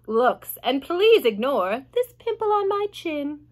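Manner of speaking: lightly voiced boastful aunt; Aunt Spiker. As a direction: preen over her own looks. Aunt Spiker's vain poem.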